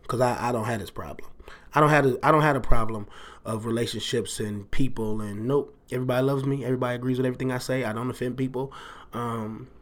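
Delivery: deadpan, joking self-praise; sarcastic boasting. Pretend. Host jokes to listeners about being perfect in relationships, sarcastic. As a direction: brag with mock innocence, then crack up at the end. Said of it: "completely being sarcastic and joking".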